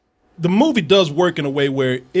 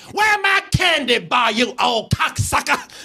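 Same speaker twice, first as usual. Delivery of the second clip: taunting shout; 6 semitones higher, slower than usual. Retold or imitated. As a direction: jeer at the shopkeeper from the street. Girl taunting the shop owner.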